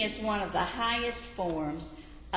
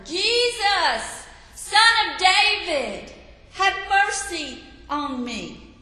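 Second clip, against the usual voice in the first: much higher and louder pleading shout; louder desperate cry; 10 semitones higher, 9 dB louder, slower than usual. A narrator's reading. Blind beggar shouting over the crowd to Jesus, desperate cry. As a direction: cry out with everything you have. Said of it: "He even yelled louder".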